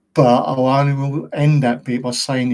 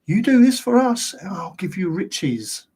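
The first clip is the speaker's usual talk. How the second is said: sinister tempter voice; 5 semitones higher than usual. Retold or imitated. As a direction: tempt them like a dark bargainer offering riches. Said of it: "literally saying".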